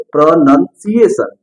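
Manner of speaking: प्रोनाउंसिएशन spaced out, with short "nun" in the middle; correct pronunciation. Shown as a demonstration. Teacher models how students should say it, correct pronunciation. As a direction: say प्रोनाउंसिएशन in pieces, pro-nun-siation. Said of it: "इसको बोलेंगे".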